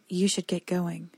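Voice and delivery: slow, soothing and even; calm and even. Acted. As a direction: lull him like cattle. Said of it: "evenly, like a farmhand lulling cattle".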